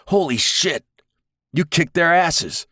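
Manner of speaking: stunned delight after the fight; amazed whoop. Acted.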